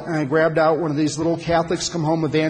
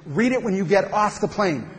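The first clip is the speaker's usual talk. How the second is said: emphatic retold instruction, slightly raised. Nervous passenger handing a card to flight attendant, emphatically. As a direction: say it as a firm handover order. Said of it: "I said emphatically".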